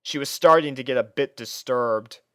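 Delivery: ordinary delivery, nothing marked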